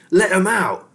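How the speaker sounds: high, loud rat scream. A narrator's reading. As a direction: scream it in fury. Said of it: "screamed Ham and Pork".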